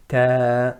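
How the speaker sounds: Ta thin, falling; light Ta. Shown as a demonstration. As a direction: correct light Ta. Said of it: "sound is descending downwards".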